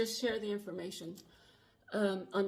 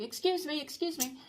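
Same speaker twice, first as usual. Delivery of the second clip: imitating a sweet woman's voice, higher; 6 semitones higher than usual. Woman in the back seat luring her over, sweetly imitated. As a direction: coax a passerby with a higher, sweet excuse me. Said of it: "it's sounding really sweet".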